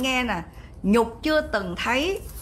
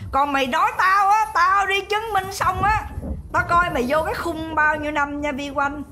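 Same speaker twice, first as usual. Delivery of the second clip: angry threat; 4 semitones higher than usual. Real, not acted. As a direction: threaten her straight to her face. Threatening rival Vi Oanh directly.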